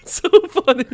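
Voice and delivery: high-pitched giggly laughing through the words; can barely get it out for laughing; real laughter breaking into the words. Real, not acted. Laughing hard about the pigeon.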